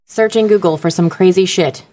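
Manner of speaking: lightly imitated robotic assistant; a hint of robot voice; robotic Siri. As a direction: copy Siri's measured delivery. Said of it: "She's got a robotic voice".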